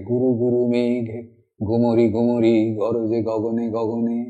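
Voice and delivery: slow, rolling the গ sounds like thunder; rumbling recitation. Shown as a demonstration. Teacher recites Tagore to show sound imagery, rumbling. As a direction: let গুরু গুরু rumble like distant thunder. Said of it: "উচ্চারণের যে ধ্বনি".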